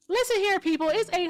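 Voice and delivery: grab the whole room's ear; calling out. Real, not acted. Calling out to the live chat.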